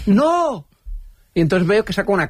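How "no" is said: high startled no, recreated; repeated shout. Retold or imitated. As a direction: cry out the no again, half laughing. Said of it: "se me escapó el grito".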